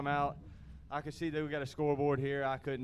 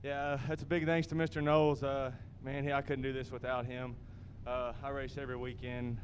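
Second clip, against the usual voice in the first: out of breath. Real, not acted. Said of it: "I'm out of breath".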